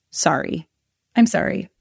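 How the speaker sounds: hollow, half-whispered "I'm sorry" with nothing behind it; empty apology. Retold or imitated. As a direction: mumble the apology as if it means nothing. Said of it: "you can almost hear the emptiness".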